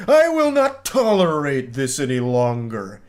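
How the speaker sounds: slow, hammed-up villain declaration; supervillain fury. Obsessed texter slamming his fist on the desk, supervillain fury. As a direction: stretch it out like a raging supervillain. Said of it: "slamming his fist into his desk".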